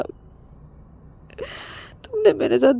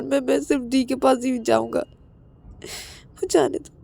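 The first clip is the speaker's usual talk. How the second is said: sobbing plea. Acted. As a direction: cry and beg to be let go. Ravi sobs and begs.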